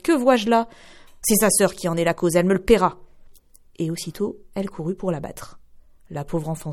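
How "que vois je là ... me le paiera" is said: angry mother. Acted. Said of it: "s'écria la mère".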